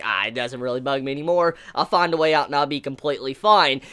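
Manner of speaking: low-key, unbothered hero imitation; lightly imitated nonchalance; casual. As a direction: toss it off as no big deal. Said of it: "saying it so casually like that".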